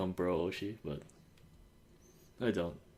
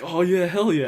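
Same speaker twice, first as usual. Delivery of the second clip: high, loud mock cheer; excited agreement; 10 semitones higher, 11 dB louder than usual. Idol thrilled to share a fan's name, excited. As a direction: imitate her whooping along, pitched well up. Idol's delighted reply, high five.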